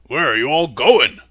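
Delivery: a lightly voiced injured farmer asking; curious man. A narrator's reading. Man on the couch.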